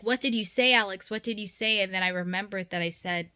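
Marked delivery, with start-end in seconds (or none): 0.0-1.8 higher, louder urgent asking; urgent questioning. Retold or imitated. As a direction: press her for the answer. Boyfriend urgently questioning, retold.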